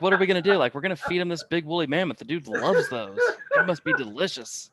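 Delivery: mock-dumb Tusken voice, laughing through it; laughing imitation of the raiders; laughing quote. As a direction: play it goofy and amused. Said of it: "They're like".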